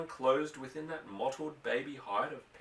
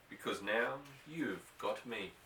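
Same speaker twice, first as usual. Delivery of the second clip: hushed, near-whispered question; 3 semitones lower, 6 dB quieter than usual. Acted. Boy to his filly in the barn, softly hushed. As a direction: lean close and murmur it to the horse. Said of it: "he whispered".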